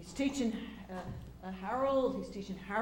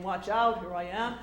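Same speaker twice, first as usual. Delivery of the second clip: booming, grand announcement of himself; big actor voice; 7 dB louder than usual. Retold or imitated. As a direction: boom it out like a stage star. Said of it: "has his voice and the presence".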